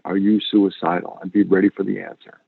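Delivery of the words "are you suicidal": direct caring question. Shown as a demonstration. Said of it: "don't be afraid to say that to somebody".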